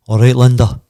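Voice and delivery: loud, booming imitated greeting; mock booming man. Stranger greets the wife over the phone, imitated boom. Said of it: "a man's booming".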